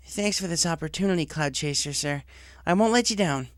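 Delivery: nervous, keen to impress the boss; young tomboy pony. Acted. Job applicant to the director, eager young voice.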